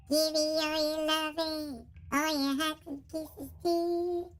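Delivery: squeaky filter, slightly high; chipmunk-ish squeaky voice. Shown as a demonstration. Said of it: "If I put Squeaky on".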